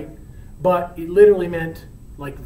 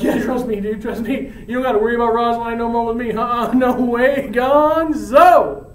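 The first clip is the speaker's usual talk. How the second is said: cocky reassurance; 5 semitones higher, 5 dB louder than usual. Acted. Romeo cockily dismisses his old crush.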